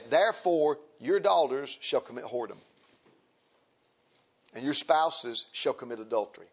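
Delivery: low, measured Bible reading; scripture reading. Acted. Preacher reads the prophet's warning to the congregation, solemn scripture reading.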